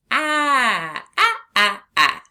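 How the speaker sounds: long stretched ah, high and loud; stretched vowel. Shown as a demonstration. Teacher stretching the short A for the class. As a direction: hold the ah out long. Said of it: "we can stretch it".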